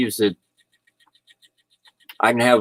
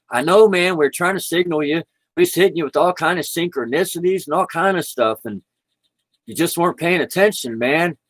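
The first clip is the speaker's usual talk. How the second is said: higher-pitched, exasperated guide pleading; mock exasperation, pitched up; exasperated spirit guides; 7 semitones higher than usual. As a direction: plead as a guide who kept signalling. Voicing guides on other side.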